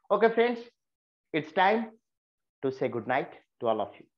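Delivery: mean every word of it; heartfelt good night. Shown as a demonstration. Teacher wishes the class good night, heartfelt. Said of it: "You feel the feelings is there".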